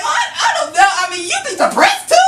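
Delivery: pleading up high and fast, half shouting; high incredulous plea. Retold or imitated. Patient pleading high-pitched with the doctor. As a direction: squeak out a disbelieving protest.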